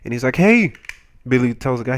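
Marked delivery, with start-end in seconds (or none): 0.4-0.7 high, loud mock call. Billy calls to the guy, retold loud call. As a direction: holler to get someone's attention.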